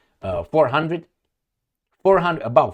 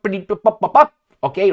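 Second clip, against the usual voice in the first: mock gunfire noises; 4 semitones higher, 6 dB louder than usual. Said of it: "I feel like doing".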